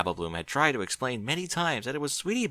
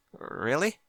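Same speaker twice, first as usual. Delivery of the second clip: excited surprise; 7 semitones higher than usual. A narrator's reading. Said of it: "with a mix of excitement and surprise".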